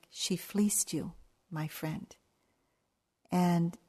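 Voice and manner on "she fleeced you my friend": whispered, slow, as if sharing bad news gently; confiding whisper. Official quietly telling the golfer he was fooled, whispered. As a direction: lean in and breathe it.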